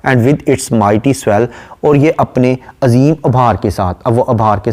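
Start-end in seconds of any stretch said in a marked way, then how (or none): 0.1-1.5 slow, measured reading of a poem line; poem recitation. Acted. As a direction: recite it slowly and deliberately. (धीमी, ठहरी हुई कविता-पाठ की आवाज़)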